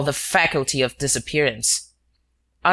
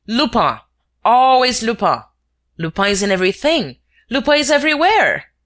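loud, higher mocking laugh-through of the name; derisive, louder and higher; laughing outburst; 7 semitones higher, 5 dB louder than usual. A narrator's reading. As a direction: scoff loudly at the idea. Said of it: "There was a loud burst of laughter".

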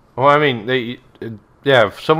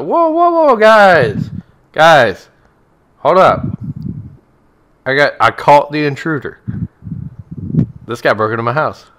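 man holding knife; 3 semitones higher, 4 dB louder than usual. Acted. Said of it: "He's like".

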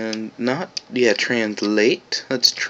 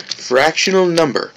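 voice cracking; 5 semitones higher than usual. Real, not acted. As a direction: voice cracks mid-sentence. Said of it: "my voice just cracked".

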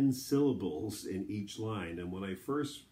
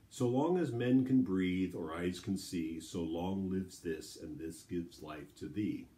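poetry reading. Acted. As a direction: read verse aloud with weight. Reads the sonnet aloud.

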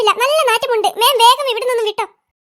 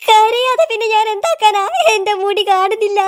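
mock crying. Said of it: "മാം ഇങ്ങനെ കരയില്ല".

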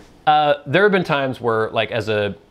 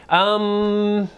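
put-on old man voice; 4 semitones higher, slower than usual. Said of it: "He's requesting an old man voice".

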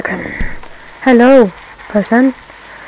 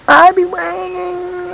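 high, slow put-on villain voice; character voice; 6 semitones higher, slower than usual. Voicing the game's crook to his partner, in a high slow put-on voice. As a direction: drawl it like a game gangster.

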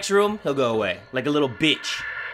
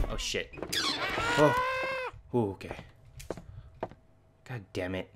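hushed tense whisper; 7 semitones lower, 5 dB quieter than usual. Real, not acted. Hiding from monster quietly.

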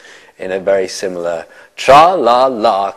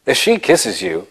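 a lightly voiced, somewhat higher rock-star croon, louder on the second line; a hint of a singer's goblin king from an eighties film; a singer's style; 5 semitones higher, 4 dB louder than usual. Actor showing how he runs lines with Colin, in a light rock-star voice. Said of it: "I do them in a David Bowie style".

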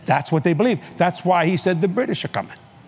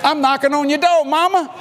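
playful pleading; 11 semitones higher than usual. Retold or imitated. Teasing wife, acting out desire.

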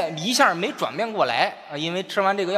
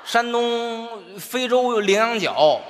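吆喝卖药; 3 semitones higher, much slower than usual. Acted. 卖药人夸张吆喝药材.

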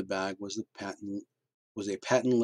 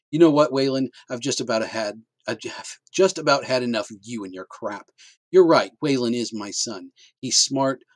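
defiant mother; 3 semitones higher, 9 dB louder than usual. Acted. Mother defying husband.

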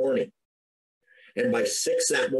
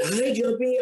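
Sharon's greeting; 10 semitones higher than usual. Retold or imitated. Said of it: "when she did that".

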